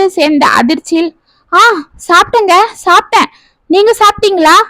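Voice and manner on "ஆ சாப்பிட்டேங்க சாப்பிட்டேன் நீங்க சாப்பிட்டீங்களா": high, fast, flustered and tearful with joy; flustered happy tears. A narrator's reading. Wife flustered when her husband asks if she ate, high and fast. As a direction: blurt it out in a rush of happy shock. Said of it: "என பதறிக்கொண்டு ஆனந்த கண்ணீருடன் கூறினாள்".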